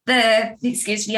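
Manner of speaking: a burp breaking the words. Real, not acted. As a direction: talk through a burp. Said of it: "I'm burping, this is horrible".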